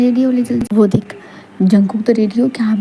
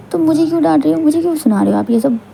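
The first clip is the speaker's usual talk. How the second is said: aggrieved protest; 6 semitones higher, faster than usual. Acted. Wife continues argument.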